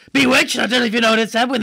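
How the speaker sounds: excited shout of the title. Real, not acted. Excitedly recalls the TV moment.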